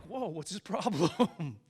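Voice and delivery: slow, lightly mocking child chorus; a hint of puzzled first graders, drawn out; imitated kids. Classmates reacting to the excited visitor, slow imitated puzzlement. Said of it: "All the kids were like".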